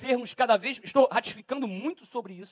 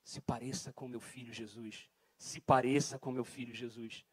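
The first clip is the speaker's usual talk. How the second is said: much softer, slow repeated urging; Spirit's insistent voice; 9 semitones lower, 8 dB quieter than usual. Acted. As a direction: murmur it low like the Spirit insisting. (sussurro insistente do Espírito)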